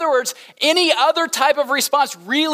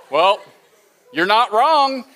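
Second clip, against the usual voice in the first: cynical tone; slower than usual. Retold or imitated. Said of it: "more cynical way of saying I'm right".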